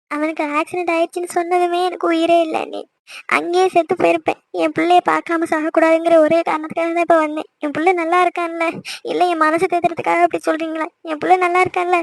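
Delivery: mother's anguished, mildly weepy pleading; tearful. Acted. Mother begging relatives for news of her son, tearful. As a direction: plead for the truth about your child, on the edge of tears. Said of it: "திரும்ப நீ ஏன் அழுதுட்டு இருக்க".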